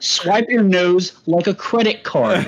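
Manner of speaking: lightly put-on, measured white-guy recital; whitest voice. Shown as a demonstration. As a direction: read rap lyrics out carefully, evenly spaced. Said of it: "read it in the whitest voice that you got".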